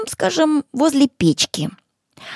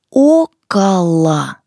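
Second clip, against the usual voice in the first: slow, loud, syllable by syllable; slow and clear; 3 semitones lower, 5 dB louder, much slower than usual. Shown as a demonstration. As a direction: spell it out slowly for learners. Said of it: "Сначала я".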